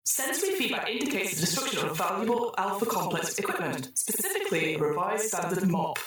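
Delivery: the computer rewarding the troubleshooters, in a chirpy synthetic voice; cheery computer voice. Acted. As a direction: sing out the congratulations like a cheerful machine.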